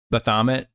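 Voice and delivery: Baphomet as buh-THAH-mit, rising; Baphomet, unsure, "buh-THAH-mit?"; questioning pronunciation. Shown as a demonstration. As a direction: ask Baphomet with stress on a middle THAH. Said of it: "is that how you say it".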